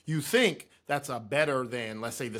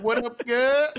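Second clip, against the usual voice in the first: put-on Australian accent; 11 semitones higher, 6 dB louder, slower than usual. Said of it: "she be like".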